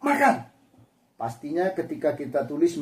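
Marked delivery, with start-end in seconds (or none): 0.1-0.5 sharp, loud order; high, loud clipped "Makan" like an order; command. Shown as a demonstration. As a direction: bark it as a command to eat. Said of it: "ini adalah sebuah perintah".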